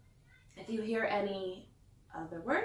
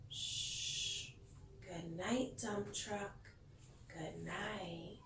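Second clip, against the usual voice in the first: soft whispered shh and goodnight; tucking in a sleepy truck; hushed goodnight; 9 dB quieter, much slower than usual. Pretend. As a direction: whisper it as if a child just fell asleep. Bedtime goodnight to toy truck.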